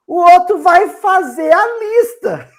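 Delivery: high, loud, laughing words. Real, not acted.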